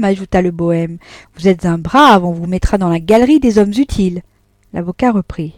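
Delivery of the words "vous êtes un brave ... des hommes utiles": flattering praise. Acted. The bohemian flattering.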